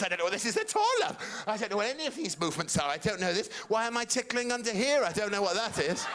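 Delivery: put-on high innocent old mum. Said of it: "So my mum's doing this".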